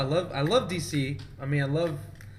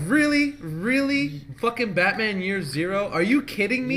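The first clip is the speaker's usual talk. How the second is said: annoyed; 4 semitones higher than usual. Retold or imitated. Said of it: "I was so pissed".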